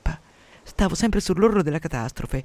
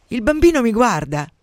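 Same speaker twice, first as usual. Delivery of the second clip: high, loud horrified outburst; alarmed cry; 7 semitones higher, 6 dB louder than usual. Acted. Frightened mother to her husband about the baby, high alarmed cry. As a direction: cry out as if facing a monster.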